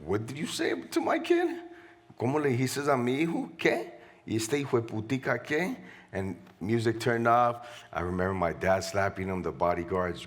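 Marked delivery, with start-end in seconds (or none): 0.0-5.8 high, angry yelling in English then Spanish; imitating a father raging at the man who insulted his kid; mock furious outburst, mostly in Spanish; furious shout. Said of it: "he goes".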